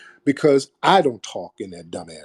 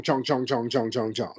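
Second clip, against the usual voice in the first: mock Asian stereotype; 6 dB quieter than usual. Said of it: "talking about chong".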